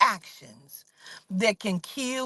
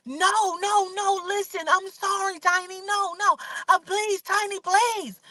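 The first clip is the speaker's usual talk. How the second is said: high, frantic begging; panicked pleading; 9 semitones higher than usual. Retold or imitated. Tasha begs Tiny not to leave, high panicked pleading. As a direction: beg desperately in a high voice. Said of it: "Now she's in a panic".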